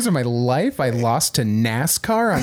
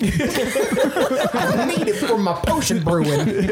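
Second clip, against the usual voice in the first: put-on cackly wheezy old timer; 3 semitones higher, slower than usual. Playing creepy grandpa character.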